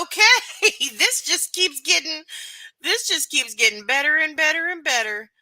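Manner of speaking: high, loud, giggly marvel; can't stop laughing at it; laughing delight. Real, not acted. Streamer keeps laughing as the festival story gets stranger.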